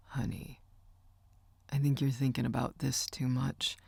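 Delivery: soft whispered comfort. A narrator's reading. Uncle comforts his crying niece, whispering softly. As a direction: whisper it tenderly to calm her.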